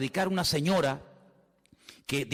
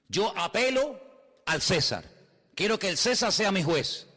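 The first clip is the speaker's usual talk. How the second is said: raised declaration with firm pauses; formal appeal; 3 semitones higher than usual. Acted. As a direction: declare it as the accused appealing to Caesar. Acts Paul's appeal before the court.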